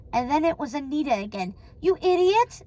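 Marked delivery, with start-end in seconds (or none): 1.8-2.6 high, exasperated scolding; higher, indignant wife; exclaiming. A narrator's reading. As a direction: scold with a rising pitch. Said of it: "she exclaimed".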